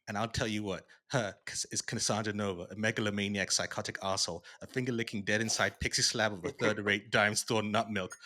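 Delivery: loud ranting comic villain read; loud quote reading. Retold or imitated. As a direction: rant it out like a trash-talking hero. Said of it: "I have it here somewhere".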